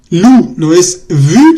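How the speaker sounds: "lu" and "vu" spelled out slowly as wrong options; slow contrast sounds. Shown as a demonstration. Teacher contrasting wrong consonants for the class, slow and clear. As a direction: draw out "lu" and "vu" one by one. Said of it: "sino bu".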